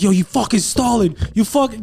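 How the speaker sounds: retold angry. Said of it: "I was getting so mad".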